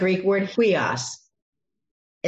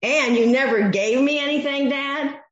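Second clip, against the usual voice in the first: raised, higher bitter complaint; resentful son; 6 semitones higher than usual. Retold or imitated. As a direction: throw it at Dad like an accusation.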